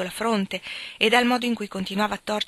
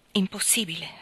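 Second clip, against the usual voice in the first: breathed out, hopeless; sad whisper. Acted. Helen refusing Gilbert, a sad whisper. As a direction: whisper it, resigned. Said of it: "scuotendo mestamente il capo".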